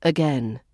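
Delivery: "again" starting on a relaxed uh; schwa in again. Shown as a demonstration. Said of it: "is the A at the beginning".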